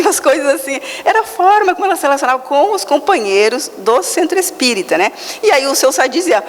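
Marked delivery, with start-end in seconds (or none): none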